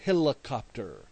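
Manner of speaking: a hint of a toddler echoing helicopter; daughter repeating. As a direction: echo helicopter like a small child. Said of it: "she said back".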